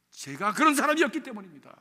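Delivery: ordinary delivery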